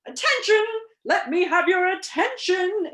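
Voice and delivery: high, loud royal call for attention; insistent. A narrator's reading. King pounding the table for silence, insistent shout. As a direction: call out over a noisy hall. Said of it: "insisted the king".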